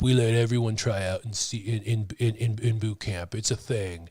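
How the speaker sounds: low, soft and trailing mock reassurance; quietly patronizing, as if retelling his brush-off; imitating patronizing recruiter. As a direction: act out a dismissive recruiter, dropping your voice. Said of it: "As he says, while he closes his eyes".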